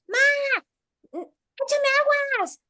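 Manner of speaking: high, slow call from the yard; retold call for help. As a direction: call out to mom from outside. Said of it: "afuera en el patio gritando". (grito aguado de la hija desde el patio)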